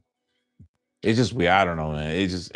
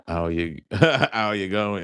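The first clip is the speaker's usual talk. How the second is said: Australian greeting with a laugh; Australian accent; slower than usual. Retold or imitated. Reading out an Australian viewer's words, laughing Australian accent. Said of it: "a typical Australian accent".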